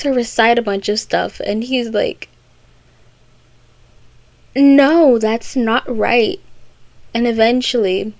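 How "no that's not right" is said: correcting caterpillar. Retold or imitated. Voices caterpillar correcting her recital.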